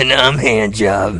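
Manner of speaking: slow, hammed-up radio host. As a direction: introduce yourself like a DJ. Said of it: "we both have the same exact radio voice".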